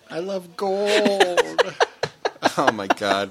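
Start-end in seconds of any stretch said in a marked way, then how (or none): 0.1-1.7 high, drawn-out movie-villain impression; Goldmember. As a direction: stretch it out high, savouring the last word. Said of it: "Goldmember quote you just did".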